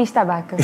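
"estabaca" said as one Portuguese word, es-ta-BA-ca; "estabaca" read wrongly, every syllable Portuguese. Shown as a demonstration. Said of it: "Eu sempre li".

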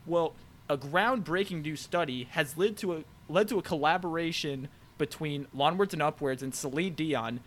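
cheesy infomercial pitch; ad read. Acted. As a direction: sell it like a TV ad. Mock sponsor ad read.

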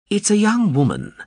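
Chambliss voice. A narrator's reading. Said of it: "Chambliss said".

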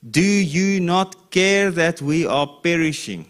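high, loud and slow, crying out over the storm; panicked disciples. Acted. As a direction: plead with the master as the boat fills.

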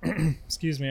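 choking on spit, clearing throat. Real, not acted. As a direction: cough out the words after choking on spit. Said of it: "I'm, like, choking on my own spit".

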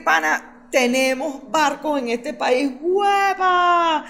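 brash, cocky boast rising to a shout; cynical boast. Retold or imitated. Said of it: "le sobra el cinismo para decir".

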